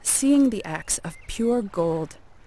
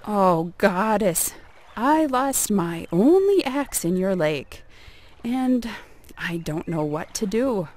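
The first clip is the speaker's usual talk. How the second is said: feigned distress; 3 dB louder than usual. Acted. Greedy neighbor pleading to lake goddess, faking distress. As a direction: put on a sorry plea, stretching the address.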